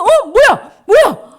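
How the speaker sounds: high, loud startled exclamation; astonished. Acted. Lepers suddenly seeing themselves healed, astonished. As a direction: blurt it out in shock.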